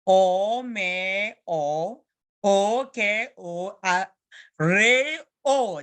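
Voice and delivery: slowly spelled, every syllable held and set apart; spelling demo. Shown as a demonstration. Teacher showing pupils how to spell, slow and deliberate. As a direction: sound out each letter for learners. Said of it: "how to do spelling".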